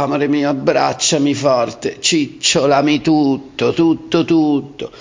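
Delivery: high whiny cuddly plea; pillow talk. Acted. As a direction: beg a lover to stay in bed. Acting cuddly morning lover.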